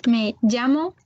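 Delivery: "Me llamo" with LL said like LI; Spanish double L in "Me llamo", as if written LI; LL prononcé LI. Shown as a demonstration. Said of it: "comme s'il était écrit L I". (« Me llamo » avec le LL comme écrit LI)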